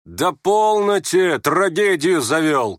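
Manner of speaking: high, exasperated cry; shouting. Acted. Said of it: "крикнул Ганя". (раздражённый окрик)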